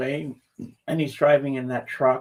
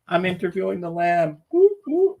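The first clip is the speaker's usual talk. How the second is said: excited cheering; 5 semitones higher than usual. Real, not acted. Host celebrating the long-awaited interview with the Lamb, excited. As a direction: celebrate with high-pitched whoops.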